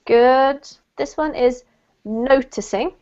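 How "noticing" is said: noticing as NO-ticing, rising; NOticing, model for the class; stress on first syllable. Shown as a demonstration. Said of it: "emphasis on the first syllable".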